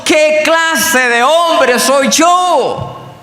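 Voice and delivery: high, drawn-out cry to God; anguished cry. Acted. Sinner crying to God over his own heart, anguished. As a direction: cry out in broken-hearted despair, stretching the words. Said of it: "entonces lloro, entonces digo".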